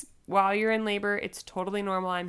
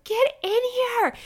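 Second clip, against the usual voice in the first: high, slow, strained yell; drawn-out loud demand, hammed up; shouted summons; 6 dB louder, slower than usual. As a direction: re-enact yelling through a door. Shouting to husband from bathroom.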